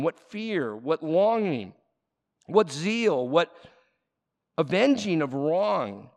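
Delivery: solemn reading from the pulpit; scripture reading. Acted. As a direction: read each phrase with weight. Reads scripture aloud.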